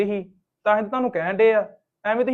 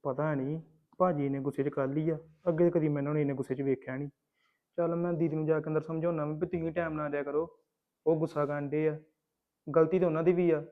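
softer, lower thinking aloud; quiet musing; 4 semitones lower, 7 dB quieter than usual. Acted. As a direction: muse to yourself after the quarrel. Alone, musing about brother's anger.

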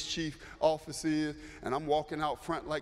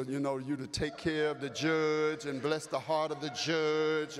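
mock prayer; 3 semitones lower than usual. Pastor praying on the phone for his member, lightly intoned. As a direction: pray it out for the judge, low and unhurried. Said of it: "And I pray".

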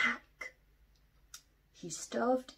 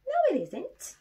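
higher, louder duck voice; quacking ducks; 13 semitones higher, 7 dB louder than usual. Acted. The ducks correct Little Bear, high and loud. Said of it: "quacked the ducks".

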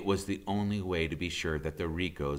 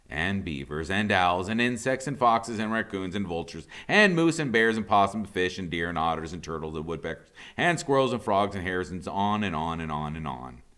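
excited; 4 semitones higher, 7 dB louder, faster than usual. A narrator's reading. Long rising list of animals.

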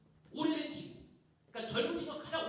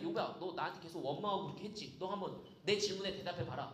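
lightly voiced divine reproach, pitched low; God; 7 semitones lower than usual. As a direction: lower the voice and challenge Job with restraint. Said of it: "하나님이 폭풍 가운데 나타나서". (낮게 깔고 나무라듯 묻는 목소리)

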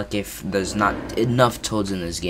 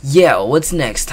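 louder, slow, emphatic take; louder redo; 3 semitones higher, 7 dB louder, slower than usual. Shown as a demonstration. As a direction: say it again, louder and slower. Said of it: "clears throat and redoes".

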